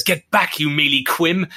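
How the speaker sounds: lightly acted film villain's command; Tom Hiddleston. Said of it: "Tom Hiddleston turns around and says".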